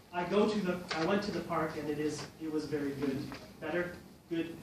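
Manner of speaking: unsure learner trying out word forms; self-correcting. Shown as a demonstration. Teacher demonstrates a learner correcting their own speech, self-correcting. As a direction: stumble and restart, fixing each slip. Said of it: "how much do you correct yourself".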